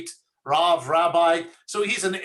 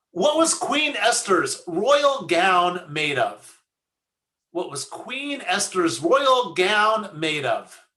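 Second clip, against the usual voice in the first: slow, spaced-out delivery of a riddle; very slowly; slower than usual. Real, not acted. Rabbi posing a joke riddle to the congregation, very slowly. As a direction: read the question out very slowly. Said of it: "I would say them very slowly".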